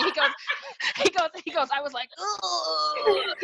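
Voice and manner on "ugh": high loud lovesick groan; loud swooning groan. Retold or imitated. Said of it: "He, he hears me".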